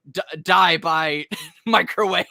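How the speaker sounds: slow, high, loud mock threat breaking into laughter; giggly, drawn-out mock taunt; laughing mock threat. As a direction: crack up while imitating a villainous line. Cracks up voicing the attackers' threat.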